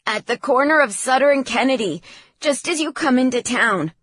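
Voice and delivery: high, loud, hurried directions; frantic son on the phone; panicked urgency. A narrator's reading. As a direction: rush out the location. Panicked son gives location by phone.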